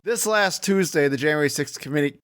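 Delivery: words said through a grin; smiling voice. Real, not acted. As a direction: let the smile into it. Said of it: "you could hear the smile in your voice".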